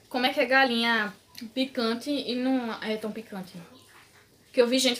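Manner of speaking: talking with mouth partly full; speaking between bites of noodles; chewing food while talking. Real, not acted. Seen 1: Noodles eaten just before; lips pursed, chewing at start only.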